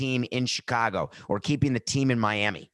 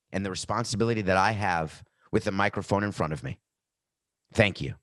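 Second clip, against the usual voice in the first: hushed, overly solemn apology read; a touch of mock contrition; mock formal apology; 3 semitones lower than usual. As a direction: read it like a forced public apology. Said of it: "All right, I'll say it".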